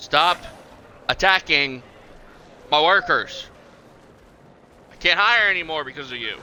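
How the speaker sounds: a half-serious telling-off of a T-Rex; mock scolding. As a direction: scold the dinosaur like a naughty dog. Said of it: "Yeah, I'm talking to you".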